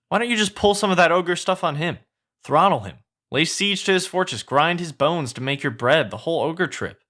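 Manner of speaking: lightly voiced pushy sidekick; a touch of excited urging; Donkey egging on. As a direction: lightly play an eager sidekick goading a friend.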